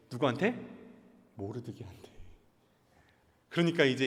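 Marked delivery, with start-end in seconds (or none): 1.3-2.1 breathy whispered reveal. Acted. Storyteller tells the listeners who, in a whisper. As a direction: drop to a secret whisper.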